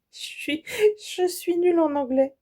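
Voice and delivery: laughing at herself. Real, not acted. Apologising to viewers for her English, laughing.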